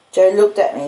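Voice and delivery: ordinary delivery, nothing marked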